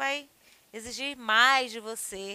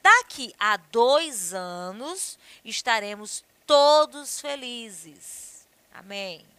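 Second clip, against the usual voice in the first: slow example; 6 dB louder, much slower than usual. Shown as a demonstration. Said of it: "Por exemplo".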